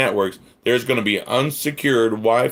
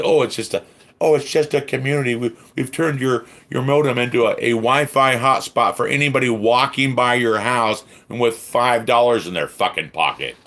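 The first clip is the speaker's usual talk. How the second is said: raised, sarcastic imitation of a company; mocking company excuse; 3 semitones higher than usual. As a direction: mimic their breezy excuse with outrage. Mimics the company's excuse, outraged.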